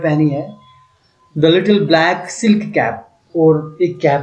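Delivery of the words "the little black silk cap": slow reading aloud. Acted. Teacher reads English text aloud.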